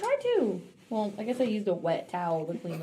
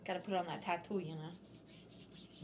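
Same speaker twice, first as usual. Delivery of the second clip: said half to herself, softer; mumbled, trailing off; 3 semitones lower, 12 dB quieter than usual. Real, not acted. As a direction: mumble it as it fades away. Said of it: "I said".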